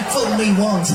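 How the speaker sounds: loud presidential caricature; put-on politician voice, projected; George Bush. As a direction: deliver it as a mock president. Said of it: "George Bush, he didn't speak normally".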